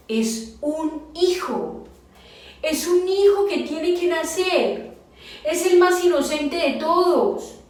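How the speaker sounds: high, slow, emphatic lament; each phrase drawn out in distress, pitch held high; anguished reasoning. Retold or imitated. Wife agonising over the child to be born, anguished.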